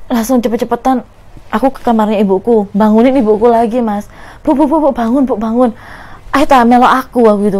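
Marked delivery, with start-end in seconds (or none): 4.4-7.3 urgent plea. Retold or imitated. Frantically waking mother.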